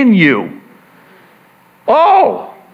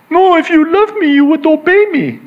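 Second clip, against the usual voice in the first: mom voice; 11 semitones higher, faster than usual. Retold or imitated. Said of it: "she would say to me".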